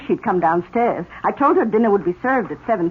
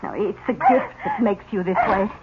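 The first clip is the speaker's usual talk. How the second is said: put-on gentle comfort for a crying child; soothing. Aunt comforts crying girl.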